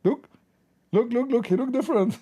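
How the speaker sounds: high, loud astonished exclaim; a mother pointing in disbelief; astonished mom. Retold or imitated. Mother telling family her son looks different, high and astonished.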